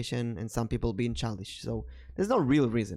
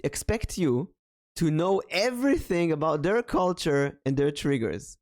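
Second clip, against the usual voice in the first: higher-pitched exasperation, stretching each "every"; bothered, exasperated; 6 semitones higher than usual. Real, not acted. Streamer vents about impossible community expectations, exasperated. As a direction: pile up the list in exasperation. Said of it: "that's something that really bothers me".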